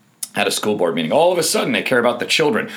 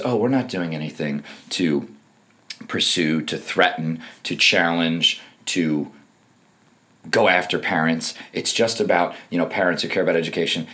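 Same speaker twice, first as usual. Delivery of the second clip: lightly mocked meek old man; lower, halting, feigned innocence; Merrick Garland; 4 semitones lower than usual. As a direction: play the harmless official, haltingly. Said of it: "feeble old voice".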